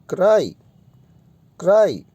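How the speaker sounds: क्राई said crisply, rising then falling; repeated model word. Shown as a demonstration. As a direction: repeat क्राई clearly for the class. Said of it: "sound क्या आ रही है".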